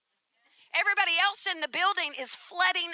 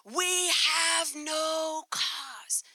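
mock yell; 4 dB quieter, much slower than usual. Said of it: "and he yells".

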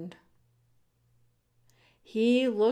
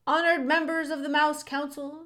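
raised, formal public address; shouted; 6 semitones higher, 4 dB louder than usual. A narrator's reading. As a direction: proclaim it to the council. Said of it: "shouted Furlow".

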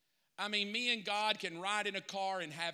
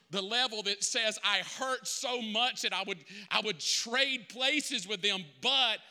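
building intensity; 4 dB louder than usual. Acted. Pastor builds to a climax.

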